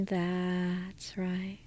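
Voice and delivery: soft whispered approval. Acted. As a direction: breathe it out as a whisper. Whispered reassurance in hypnosis.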